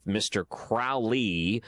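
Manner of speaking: "Crowley" with first vowel as in cow. Shown as a demonstration. Host quotes the song title, "Crowley" said with an OW vowel. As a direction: say "Crowley" to rhyme with foully. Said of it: "how's the correct way to pronounce".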